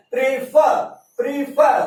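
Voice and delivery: प्रीफर in two pieces, stress on फर; stress on second syllable. Shown as a demonstration. Teacher showing where stress falls, प्रीफर stressed on फर. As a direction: lean on the फर of प्रीफर. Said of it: "फ पे आया है".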